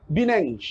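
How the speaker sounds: "Bineng" with B in place of P; "Bineng", Penang with a B sound; Arab pronunciation. Retold or imitated. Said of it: "fa dia tak boleh sebut".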